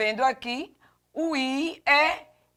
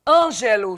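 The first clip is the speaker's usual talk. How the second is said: "Ângelo" with a louder first syllable; stress on ÂN; 5 dB louder than usual. Shown as a demonstration. Teacher showing the tonic syllable, first-syllable stress on "Ângelo". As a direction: hit the opening "Ân" of "Ângelo". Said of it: "sílaba tônica an".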